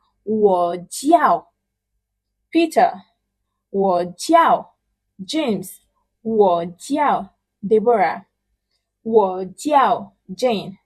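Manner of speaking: "我叫" said slowly, with "叫" falling; slow, clear model sentences; sample introductions. Shown as a demonstration. Teacher giving example self-introductions, slow. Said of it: "So together you have".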